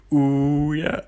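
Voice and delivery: lightly voiced, mock singing plant; a half-hearted go at a singing plant; terrible plant impression. Pretending to be a plant, a poor mock ooh yeah. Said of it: "That's a terrible impression".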